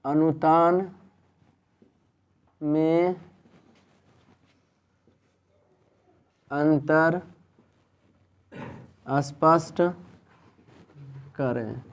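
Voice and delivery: one word at a time, long gaps; slow dictation. Real, not acted. Teacher dictates an exam question to the class, slow dictation. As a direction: dictate word by word, each held up unfinished.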